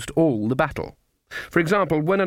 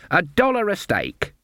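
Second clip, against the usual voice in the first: put-on high, slow old-lady voice; flustered old Granny; 7 semitones higher than usual. A narrator's reading. Granny accepts the sharpers' stake, flustered. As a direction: agree in a high, innocent voice.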